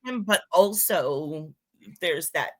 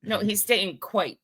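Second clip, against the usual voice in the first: lightly mocking British accent; clipped schoolboy English accent; 5 semitones higher than usual. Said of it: "we sound like dumbasses with our accent".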